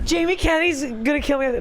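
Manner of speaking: high-pitched mock alarm; retold mock panic. Guest retelling being weirded out by the host, mock panic. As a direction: act out your own freaked-out thought. Quotes own panicked thought.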